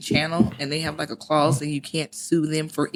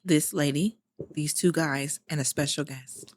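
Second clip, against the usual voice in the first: lightly put-on radio presenter, a little lower; phrase it like a radio host, trailing softer; 3 semitones lower, 4 dB quieter than usual. Co-host rephrases the guest introduction, light radio voice. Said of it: "not her with her radio voice".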